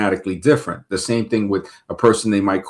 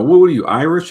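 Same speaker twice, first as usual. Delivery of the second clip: mock taunting question; 7 semitones higher, 5 dB louder than usual. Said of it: "if you say".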